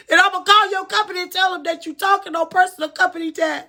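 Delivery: retold threat. Aunt threatens caregiver in quarrel.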